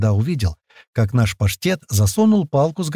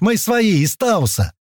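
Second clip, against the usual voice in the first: high calling shout; 9 semitones higher, slower than usual. A narrator's reading. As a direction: call out to reassure hidden men. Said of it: "снова крикнул Паштет".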